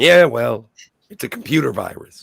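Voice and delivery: hoarse, laryngitis rasp; raspy voice. Real, not acted. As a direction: voice like a swallowed fire hose. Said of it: "you got some virus or something there".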